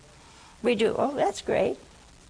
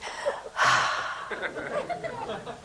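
laughing sigh; 5 dB quieter than usual. Real, not acted.

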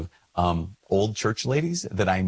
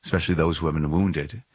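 prayer; 2 semitones lower than usual. Acted.

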